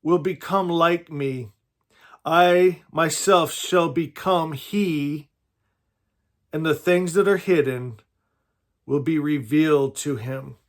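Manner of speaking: slow, measured reading with spaced phrases; scripture reading. Acted. Preacher reading a saying of Jesus to listeners, slow scripture reading. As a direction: read it out slowly, letting each phrase land.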